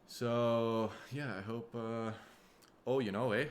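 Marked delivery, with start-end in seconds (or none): 2.9-3.5 put-on playful Minnesota accent, a bit louder; mock Minnesotan lilt. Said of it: "I just wanted to be Minnesota".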